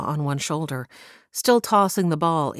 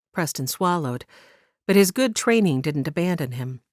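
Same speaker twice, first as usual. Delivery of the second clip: ordinary delivery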